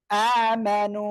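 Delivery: আমানু with a long drawn alif; recitation model. Shown as a demonstration. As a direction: model আমানু for the class to repeat. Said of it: "সবাই একসাথে জোরে জোরে পড়েন".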